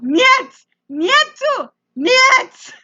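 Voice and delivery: high-pitched mock yell of refusal; retold yelling. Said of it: "as I yelled".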